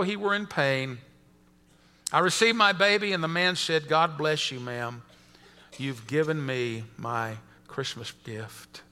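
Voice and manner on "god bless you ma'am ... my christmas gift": low, soft, slowing blessing; tender gratitude. A narrator's reading. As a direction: give thanks quietly, lingering on the words. Grateful old man's blessing in story.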